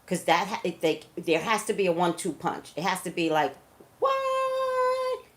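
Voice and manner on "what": a sudden stunned what at the news; shocked what. Acted. Hearing the running-mate pick, a much higher stunned cry. Imagining the VP announcement.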